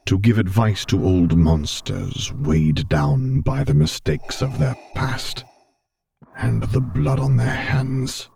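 a hint of a weary old monster, teasing; broken, teasing Vader. A narrator's reading. Vader calling himself an old monster, self-mocking. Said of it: "tone still slightly broken but tinged with something teasing".

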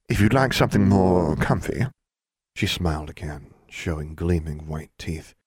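sly serpentine jailer, unhurried; menacing snake woman. Acted. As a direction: purr it like a coiled snake. Voices snake-woman jailer Edna.

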